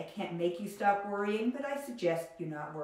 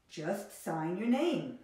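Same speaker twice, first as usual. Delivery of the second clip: slow and easy; much slower than usual. Shown as a demonstration. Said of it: "This means it's easy".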